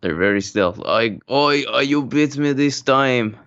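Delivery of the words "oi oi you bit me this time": mock character voice. Mock accented quote of the beaten guards.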